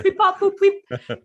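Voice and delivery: high, loud beeping robot. Pretend. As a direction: chirp it like a toy robot. Robot noises after data joke.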